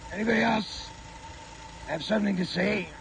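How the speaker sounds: breathless after shouting; winded, catching your breath. Real, not acted. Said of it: "I'm out of breath here".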